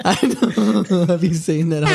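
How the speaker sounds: laughing. Real, not acted. Laughing at own joke.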